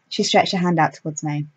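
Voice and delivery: ordinary delivery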